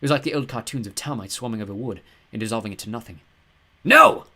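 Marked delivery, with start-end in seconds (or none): 3.8-4.3 very loud, high anguished yell. A narrator's reading. Ghost yells as his mummies die, very loud. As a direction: howl it in defeat. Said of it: "yelled Mad Claude".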